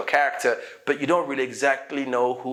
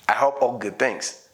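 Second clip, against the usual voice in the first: smiling, joking; 2 semitones lower than usual. Shown as a demonstration. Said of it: "Don't forget to smile when you say this".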